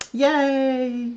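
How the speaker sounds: high, drawn-out happy yay; real excited whoop of welcome; delighted cheer. Real, not acted. Cheers new Australian viewer joining.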